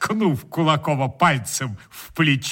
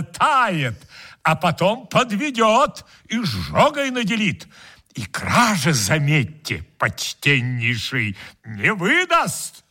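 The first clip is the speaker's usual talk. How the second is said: greedy guest voice; 2 semitones higher than usual. Acted. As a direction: play the cheeky freeloader, pitched up.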